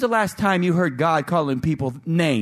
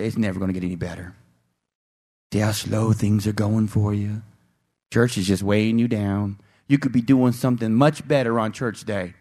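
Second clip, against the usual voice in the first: low, coaxing tempter voice; voicing Satan's lies; 5 semitones lower than usual. Preacher voicing Satan discouraging the churchgoer, low and coaxing. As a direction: whisper doubt like the devil. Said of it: "Satan wants you to give up".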